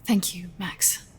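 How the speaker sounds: slow, sarcastic whisper; dry whisper. Acted. Blind doctor answering a tactless remark, slow dry whisper. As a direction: murmur thanks you don't mean.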